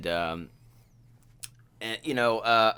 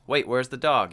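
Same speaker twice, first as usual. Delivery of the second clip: ordinary delivery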